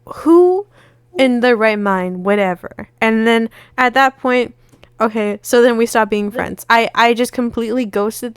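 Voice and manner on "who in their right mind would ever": disbelieving gasp of a question; appalled disbelief. Retold or imitated. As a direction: recoil in shock at the idea. Retelling outrage at friend.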